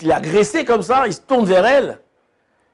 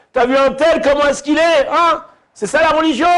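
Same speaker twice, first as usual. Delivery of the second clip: mocking imitation; 8 semitones higher than usual. Mocking a fellow Jew's question.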